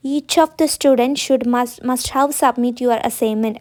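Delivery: each word spaced for writing; slow dictation. Shown as a demonstration. Teacher dictating a sentence to students, very slow. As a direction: dictate slowly so students can copy. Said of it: "അപ്പോൾ നമ്മൾ എന്ത് ചെയ്യും".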